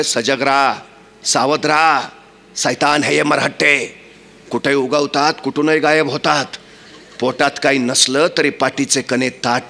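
low, measured warning to the troops; commander's warning. Acted. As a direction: caution the soldiers gravely, pausing between phrases. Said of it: "आपल्या सैनिकांना सांगतोय". (सैनिकांना सावधगिरीचा खालच्या सुरातला इशारा)

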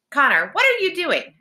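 high, alarmed call; high-pitched shocked cry to brother. A narrator's reading. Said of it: "Alex called out".

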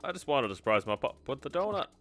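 character voice. Acted. Voicing game character dialogue.

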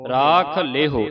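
ਲੇਹੋ said as "lay-ho", drawn out; ਰਾਖ ਲੇਹੋ in slow, separate words; careful pronunciation. Shown as a demonstration. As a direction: slowly model ਲੇਹੋ with a long "lay" and clear "ho". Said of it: "ਇਹਨੂੰ ਲੇਹੋ ਪੜ-, ਪੜਨਾ ਹੈ, ਲੇਹੋ".

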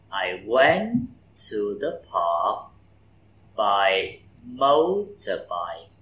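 slow motorbike with MO stressed; by motorbike said slowly, stressing MO; slow model reading. Shown as a demonstration. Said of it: "trọng âm câu". (đọc chậm, nhấn MO trong motorbike)

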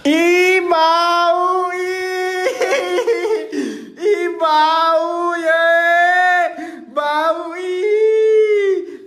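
drawn-out singsong whine; sing-song teasing over a stink; teasing disgust. Real, not acted. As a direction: stretch out each word in mock disgust. Teasing someone about a bad smell.

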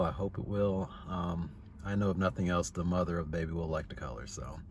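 talking while chewing gum; words around a wad of gum. Real, not acted. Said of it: "I'm sorry I'm chewing gum".

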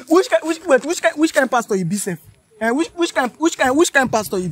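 outraged demand. Acted. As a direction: hammer him with which kind pastor.

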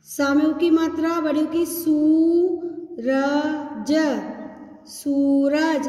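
syllable by syllable, then blended; sounding out words. Shown as a demonstration. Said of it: "अब ध्यान से देखेंगे".

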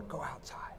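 hushed whisper. Real, not acted. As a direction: whisper it quickly. Urging listeners to look up.

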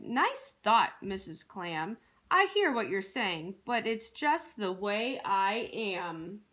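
a touch of resigned gloom, sinking in pitch; glum pout-pout fish. Acted. Fish answers his friend Missus Clam, mildly glum.

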